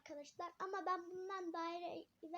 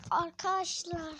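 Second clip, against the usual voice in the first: loud, slow, drawn-out call; 3 semitones higher, 12 dB louder than usual. Real, not acted. Kid calling out loudly to his viewers. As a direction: call out to get the viewers' attention.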